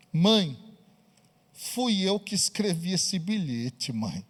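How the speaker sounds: low, soft punchline; a hushed, embarrassed admission; sheepish confession. Acted. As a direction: drop the voice for the reveal. Daughter confesses the twist.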